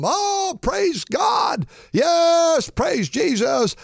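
excited praise. Real, not acted. Preacher breaks into praise.

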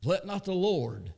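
a hint of a trembling plea, slow; preacher voicing Abraham begging God; Abraham's humble plea. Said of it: "That's how".

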